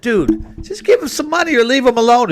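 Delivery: retold irritated outburst; retold exasperated yell. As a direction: snap at the crowd to leave him alone. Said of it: "finally I said".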